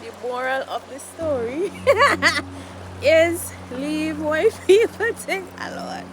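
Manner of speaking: laughing through the punchline. Real, not acted. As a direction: chuckle the moral out.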